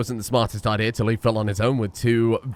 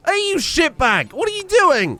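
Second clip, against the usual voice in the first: high furious shout; angry yell; 4 dB louder than usual. Real, not acted. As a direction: yell at him, outraged. Yelling at misbehaving colonist.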